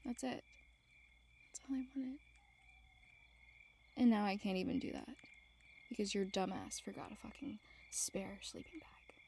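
softly upset, sulky complaint; hurt, subdued grumbling. Acted. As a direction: let the disappointment show quietly. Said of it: "now I'm extremely upset".

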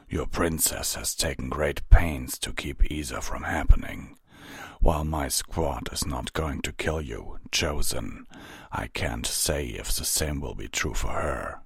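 lightly voiced grave captain; a touch of measured warning; stern armored captain. Armored pony warns Twilight about her princess, lightly grave.

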